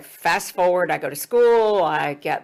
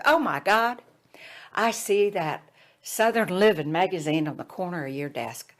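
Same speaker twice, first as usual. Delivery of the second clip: put-on Jim Hickson, Southern accent; 2 semitones higher than usual. Student spots a magazine on her desk, Southern accent. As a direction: exclaim in a Southern accent, then settle. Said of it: "he had this Southern accent".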